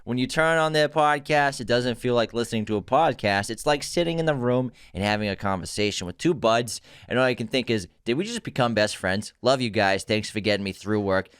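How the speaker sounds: lightly voiced Boston accent; a hint of Boston in the reading. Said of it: "do this in a Boston accent".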